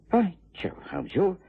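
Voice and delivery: a delighted By Jove; excited discovery. Acted. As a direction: pitch jumps up on By Jove, eager and delighted.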